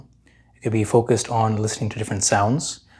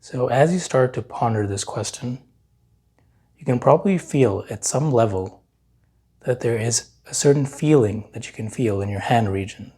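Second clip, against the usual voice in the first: unhurried meditation guide, long pauses between phrases; guided meditation. Real, not acted. Meditation teacher leading listeners to notice their hands, calm guiding voice. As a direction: guide them calmly, leaving long silences to feel.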